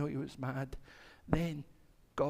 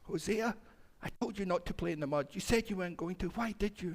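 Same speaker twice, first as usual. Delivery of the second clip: raised pitch, mildly cross scolding; angry father; 4 semitones higher than usual. Acted. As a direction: act out a parent telling off a child. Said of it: "really angry and said".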